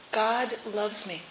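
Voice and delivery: hushed, slow and sincere; soft and slow. Shown as a demonstration. Preacher quietly savoring the words for the congregation. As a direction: let the words sink in softly. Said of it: "Think about it".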